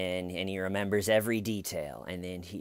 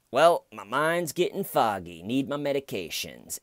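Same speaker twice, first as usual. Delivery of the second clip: mock foggy excuse; 5 semitones higher than usual. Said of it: "goes from a truth teller".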